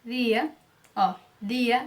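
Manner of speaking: "dia" with a light Spanish d, no j sound; tongue lightly at the teeth for "dia"; soft D. Shown as a demonstration. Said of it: "não tem essa pronúncia".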